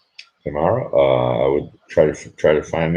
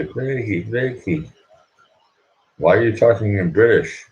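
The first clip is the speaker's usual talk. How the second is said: higher-pitched mock questioning voice; imitating puzzled questioners; 8 semitones higher than usual. Friends asking Blakey about his British talk, imitated in a high questioning voice. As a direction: put on other people's voices, pitched well up.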